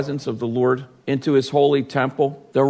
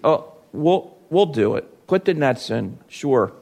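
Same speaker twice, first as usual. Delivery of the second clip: half-hearted. Retold or imitated. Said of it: "he half-heartedly agreed".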